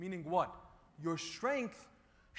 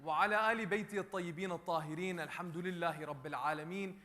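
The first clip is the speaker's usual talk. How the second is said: fast ritual opening prayer; rapid Arabic recitation; much faster than usual. Acted. Preacher opening the sermon with fast Arabic prayer. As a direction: rattle off the opening formula.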